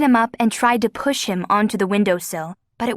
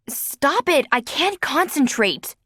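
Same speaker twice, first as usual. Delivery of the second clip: snapping back; 5 semitones higher, slower than usual. A narrator's reading. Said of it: "Adrian shot back".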